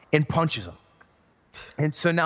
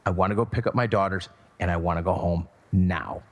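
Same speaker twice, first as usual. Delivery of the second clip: a low, simmering mock of his wife; angry wife; 5 semitones lower than usual. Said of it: "my wife is not happy".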